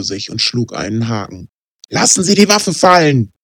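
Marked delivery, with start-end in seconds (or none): 1.9-3.3 high, loud barked order; officer shouting at the gunman; police command. Acted. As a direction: yell the command over gunfire.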